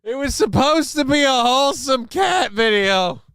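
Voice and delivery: high, indignant outburst at the video; outraged exclamation. Real, not acted. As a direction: sound scandalized, pitch climbing high.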